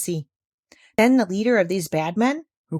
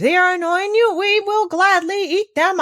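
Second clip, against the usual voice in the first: lightly voiced shark; 12 semitones higher, 5 dB louder than usual. A narrator's reading. Shark offering the doctor help, lightly voiced. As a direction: offer it eagerly.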